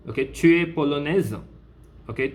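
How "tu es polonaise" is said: "Tu es polonaise" lifted high as a question; question intonation. Shown as a demonstration. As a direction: ask "Tu es polonaise" by tune alone, pitch raised. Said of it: "You are using the intonation form".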